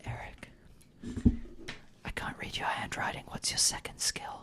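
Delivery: ASMR-style whisper. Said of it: "We're going into A S M R mode".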